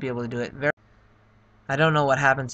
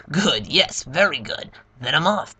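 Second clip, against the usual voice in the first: louder, lightly voiced Bowser gloating; a pleased villain, a bit louder; 5 dB louder than usual. Bowser praising his minion's news, lightly voiced and gloating. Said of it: "Let me get my Bowser voice ready".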